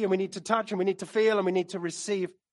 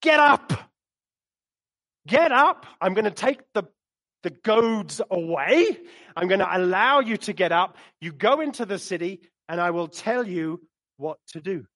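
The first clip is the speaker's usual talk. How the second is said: the Lord commanding; 3 semitones lower than usual. Acted. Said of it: "And the Lord said to him".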